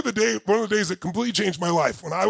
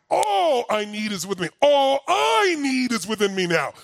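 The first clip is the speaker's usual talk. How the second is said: shouted incantation; 4 semitones higher than usual. Retold or imitated. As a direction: belt it out like a battle cry. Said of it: "I would shout it".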